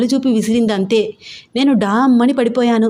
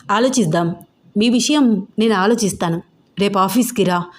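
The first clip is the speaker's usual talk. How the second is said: grave. Retold or imitated. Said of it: "చాలా గంభీరంగా చెప్పి".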